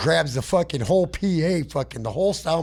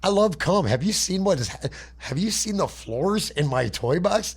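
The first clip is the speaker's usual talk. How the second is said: mock grateful villain; 5 semitones higher than usual. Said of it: "laying there like".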